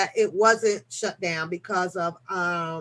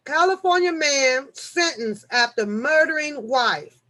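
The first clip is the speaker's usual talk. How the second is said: ordinary delivery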